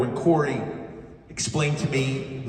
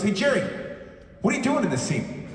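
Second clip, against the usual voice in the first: lightly imitated director, pitched higher; retold director calling over; 5 semitones higher than usual. Director to child actor at the fence, imitated higher-pitched call. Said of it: "and he goes".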